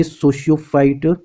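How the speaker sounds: "sociophyte" drawn out slowly; slow, tentative go at "sociophyte"; unsure pronunciation. Real, not acted. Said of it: "सही pronounce कर पा रहा हूँ".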